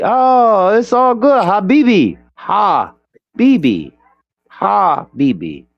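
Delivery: Habibi stretched and falling, drawn out slowly; Habibi the certain way. Shown as a demonstration. Teaching friends how to say Habibi, slow falling Habibi. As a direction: drawl out Habibi, falling at the end. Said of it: "So you have to say it like this".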